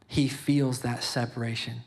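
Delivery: rising preacher's emphasis; preaching. Real, not acted. Father preaching about God's love, fervent preaching. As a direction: preach it to the listeners, pressing the point. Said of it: "I'm sorry, I'm preaching".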